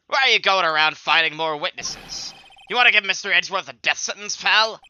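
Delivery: put-on detective accusing Phoenix, loud southern accent. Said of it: "like, a southern accent for him".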